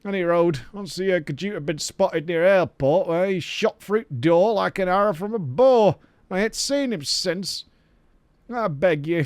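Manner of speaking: lightly voiced rustic quest-giver; game quest-giver. Villager begging an adventurer to find Sigurd, lightly acted role. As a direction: plead as a villager seeking a lost lad.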